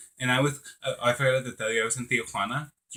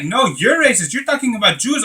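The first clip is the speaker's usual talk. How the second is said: high, loud accusation; retold angry retort; 10 semitones higher, 9 dB louder than usual. Cashier accusing the customer in a retold quarrel, indignant. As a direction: fire it back, imitating an offended cashier.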